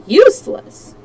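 high, loud questioning echo; incredulous echo. A narrator's reading. Detective challenges the servant's word, incredulous echo. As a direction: throw the word back in surprise.

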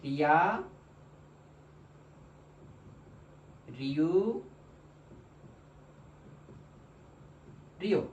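নিয়া, নিউ, নিও each said alone after a long pause; slow syllable demo. Shown as a demonstration. Teacher modelling the new syllables, slow and deliberate. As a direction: model every syllable for students to repeat. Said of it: "pronunciation হয়ে যাবে".

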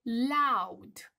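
loud demo shout. Shown as a demonstration. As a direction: shout the word like the roaring bear. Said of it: "Ursulețul care țipă".

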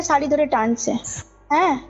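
usual speaking voice

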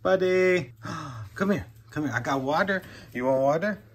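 high, loud coaxing voice to a dog; pet talk. Real, not acted. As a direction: coax the dog over in a bright high voice. Calling the dog to drink.

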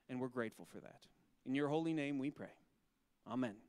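earnest, steady voice of a prayer. Acted. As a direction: pray over the children sincerely and steadily. Leads a prayer after "let's say a prayer.

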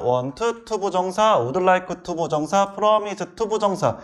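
each verb chained to 투부정사, as in "promise 투부정사"; chant-like drill linking want, would like, promise each to 투부정사; joined-up reading. Shown as a demonstration. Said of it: "이렇게 붙여서 읽으면 될 거야". ("want 투부정사"처럼 동사와 투부정사를 붙여서 읽기)

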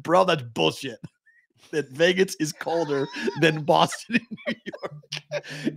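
slow, laughing retelling of the daughter's complaint; imitating daughter. Dad retelling his daughter's weather complaint, slow and laughing. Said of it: "You literally said".

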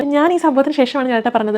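mocking an over-dramatic, fake tone; lightly imitated fake drama queen delivery. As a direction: parody her put-on dramatic way of speaking. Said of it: "ഇതെന്തിനാണ് ഇങ്ങനെ പറയുന്നത്?".

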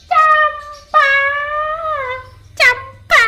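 high, slow call across room. Real, not acted. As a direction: call the pet bird, drawn out. Calling the bird by name.

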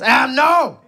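high, shouted mock despair, slowed on mayonnaise; hammed-up boss yelling about stolen sauce; mock panic. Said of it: "He goes".

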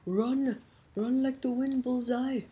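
high loud excited yell; loud panicked shout. Real, not acted. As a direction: shout the order to run. Fleeing enemies in game.

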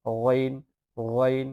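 গইন drawn out from the throat; ghain from the throat. Shown as a demonstration. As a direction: stretch গইন as a throaty Arabic gh. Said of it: "হলকের শেষ ভাগ হইতে উচ্চারণ করবেন".

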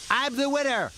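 high-pitched little engine; excited, squeaky-high boast; Skarloey peeping. A narrator's reading. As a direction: peep it out triumphantly, very high. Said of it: "peeped Skarloey".

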